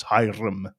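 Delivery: Hiram with a light Scottish rolled R; slightly rolled R. Shown as a demonstration. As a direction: say Hiram, gently trilling the R. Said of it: "add a slightly rolled R to it".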